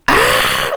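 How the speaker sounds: short mock blood-curdling scream; imitated scream. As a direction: imitate a scream of pain, held back. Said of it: "blood curdling scream".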